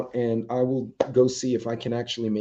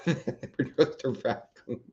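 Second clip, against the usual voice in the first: laughing; 3 semitones higher, 4 dB quieter than usual. Acted. Repeats the line laughing.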